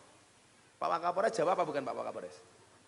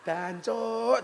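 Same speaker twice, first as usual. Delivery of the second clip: sharp, higher "Dancuk," blurted out; self-cursing outburst; 6 semitones higher than usual. Retold or imitated. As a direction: spit "Dancuk," at yourself, higher. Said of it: "dancuk aku". (misuh "Dancuk," dhuwur)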